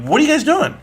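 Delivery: mock-call after the running kids. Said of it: "And I'm like".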